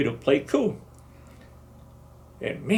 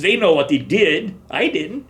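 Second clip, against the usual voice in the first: loud, higher, hurried self-defence; protesting loudly; 9 semitones higher, 7 dB louder than usual. Retold or imitated. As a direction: plead your case over him. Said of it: "I says".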